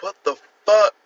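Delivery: high, loud shocked outburst; stunned disbelief at a meme; shocked what the fuck. Retold or imitated. Reacting to a meme, a high, loud stunned outburst. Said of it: "I was like".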